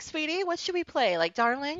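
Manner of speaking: sugary high pretend-sweet voice for a fake couple; doting fake wife. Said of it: "I would have milked the shit out of it".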